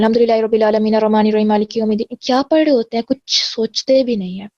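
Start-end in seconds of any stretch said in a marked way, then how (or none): 0.0-2.2 careless rushed recitation. Shown as a demonstration. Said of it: "normally کس speed پہ پڑھ رہے ہوتے ہیں".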